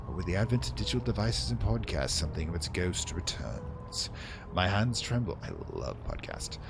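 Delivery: theatrical letter read with big swells and hushed drops; dramatic reading. Acted. The presenter's letter read aloud to David, dramatically. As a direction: read it like an old radio drama villain. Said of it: "I like to be dramatic sometime".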